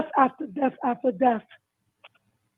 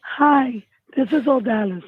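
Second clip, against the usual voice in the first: losing voice. Real, not acted. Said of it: "I'm losing my voice".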